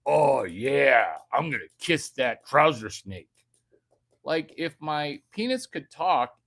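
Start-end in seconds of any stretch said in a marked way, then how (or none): 0.1-3.3 mock eager woman. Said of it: "look at my trouser snake".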